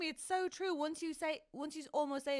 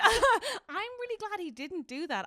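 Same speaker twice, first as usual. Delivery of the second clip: slow, higher words through laughter; laughing; 10 semitones higher, 6 dB louder than usual. Real, not acted. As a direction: laugh while saying it. Laughing over her relief.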